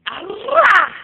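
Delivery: very high, loud squeal; squealed peekaboo shout. Acted. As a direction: surprise the baby with a squeal. Peekaboo game with baby.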